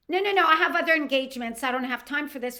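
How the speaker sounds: fast, loud, haughty brush-off; mock-haughty woman at the bus stop; snooty refusal. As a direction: rattle it off like she is too busy. Woman refuses to call 911.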